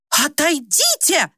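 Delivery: high, slow, sharp rebuff; sharply. Acted. Old woman sharply pushing the bearded man away. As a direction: cut him off sharply. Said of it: "вдруг резко сказала она".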